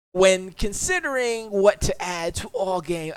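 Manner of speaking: slow, careful British accent read. Shown as a demonstration. Streamer reading patch notes in a British accent. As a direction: read it like a posh Brit. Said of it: "I gotta do it in a British accent".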